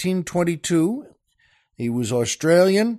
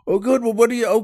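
higher-pitched, projected reply; calling out; 7 semitones higher, much faster than usual. Acted. Husband calling to the stranger in the rain, calling out. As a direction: call over to someone unseen.

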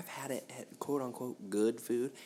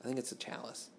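whispered guess; 5 dB quieter than usual. Real, not acted. Quiet guess at the word.

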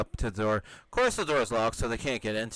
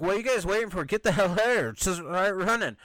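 much higher, louder urging to run; Tony yelling at his friends to get out; imitated urgent shout; 8 semitones higher, 4 dB louder than usual. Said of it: "And Tony's like".

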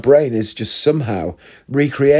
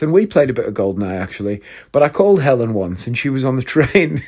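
ordinary talk, nothing marked

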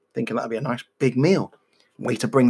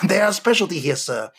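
French waiter; faster than usual. Acted. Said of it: "He's also French".

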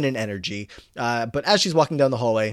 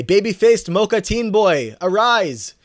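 hammed-up Figgins call; 9 semitones higher, 7 dB louder, slower than usual. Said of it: "Figgins is gonna come by and wake him up and say".

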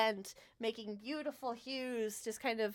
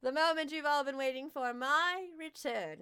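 grand fey king; 4 semitones higher than usual. Acted. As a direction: announce it like a ringmaster king. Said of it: "He smiles".

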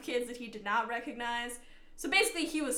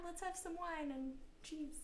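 hammed-up French accent, much higher and laughing; mock French accent; 10 semitones higher, 3 dB louder than usual. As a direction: play a silly Frenchman. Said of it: "that's my impression of, of the French".

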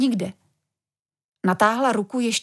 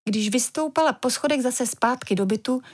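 plain reading voice

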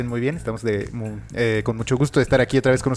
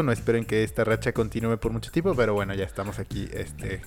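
hungover; 4 dB quieter than usual. Real, not acted. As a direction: speak drained from a hangover. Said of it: "Llevando crudo".

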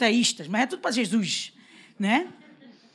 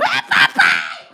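put-on a kid's happy shout, far lower and slow; child's cry; 8 dB louder, much slower than usual. Child running to his tired mother, calling out happily. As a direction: call out like an excited little boy.

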